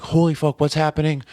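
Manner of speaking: high-pitched retold alarm; re-enacted shocked outburst; alarmed reaction. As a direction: exclaim it as if caught off guard. Acting his alarmed reaction, retold.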